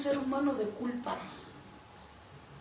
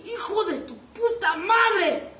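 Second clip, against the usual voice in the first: laughing curse; 6 semitones higher, 5 dB louder, slower than usual. Acted. Exasperated punchline, laughing.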